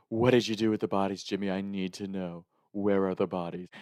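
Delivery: lightly voiced stern questioning; understated grave interrogation; serious grandma. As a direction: imitate grandma demanding answers gravely. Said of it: "when she gets serious on the phone".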